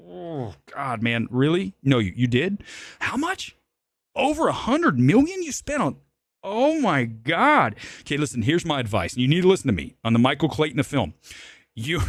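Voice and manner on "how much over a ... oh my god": squeaky high gasping astonishment; shocked disbelief. Acted. Streamer hearing Coppola spent a hundred million, high shocked squeal. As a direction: rise way up, then drag out oh my God slowly. Learning the imagined film budget.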